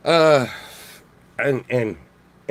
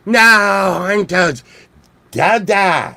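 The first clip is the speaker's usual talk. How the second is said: mock dismay; 5 semitones higher, much slower than usual. Warning the horned toads eating fire ants, dismayed. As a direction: cry out in hammed-up alarm. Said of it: "I'm like".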